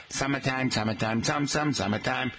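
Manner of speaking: put-on old song chanted in a Boston accent; wicked Boston accent. Radio host recalling an old summer song, wicked Boston accent. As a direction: chant it Boston-style, dropping the R's. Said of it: "wicked Boston accents".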